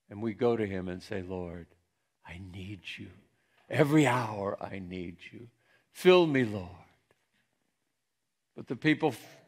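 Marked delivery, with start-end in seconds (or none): 1.2-6.7 hushed, earnest prayer. Acted. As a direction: pray it gently, rising on the last plea. Models a needy prayer.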